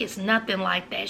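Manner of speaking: soft, small-voiced denial; a quiet, timid "It's nothing like that."; meek denial. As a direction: say it softly, backing down. Pearl meekly denies.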